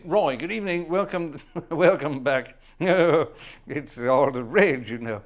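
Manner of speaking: put-on slow, loud old-man voice with laughter; Henry Crun voice. Host keeps up the Crun voice for Roy, slow and loud. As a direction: creak it out like an ancient man, laughing.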